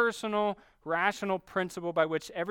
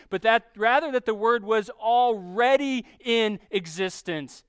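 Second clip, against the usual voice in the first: "already" pushed higher and louder to correct the idea; emphatic contrast; 3 semitones higher, 5 dB louder than usual. Real, not acted. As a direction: preach it, hitting "already" hard. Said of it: "What John is not saying".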